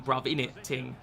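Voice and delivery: lightly voiced London roadman accent; a hint of mock chav English; understated London street accent; chav slang. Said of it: "sound like a waste man".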